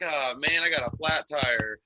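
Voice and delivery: imitating a helpless Facebook whiner; hammed-up woe-is-me venting; mock complaining. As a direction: put on a helpless moan. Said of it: "post on Facebook and be like".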